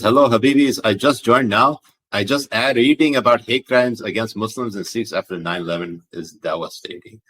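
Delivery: put-on reading in a light Pakistani accent. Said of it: "I read this in a fucking Pakistani accent".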